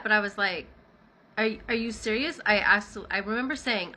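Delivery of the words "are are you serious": upset disbelief. Retold or imitated. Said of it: "I was a little upset".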